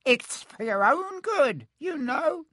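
high, slow, sanctimonious poltergeist; Peeves, saintly. A narrator's reading. Peeves pretending it is for their good, saintly. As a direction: feign virtue in a squeaky high voice. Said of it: "said Peeves in a saintly voice".

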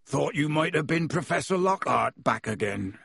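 a friendly giant welcoming guests in; half-giant host greeting visitors at the door; Hagrid voice. Acted.

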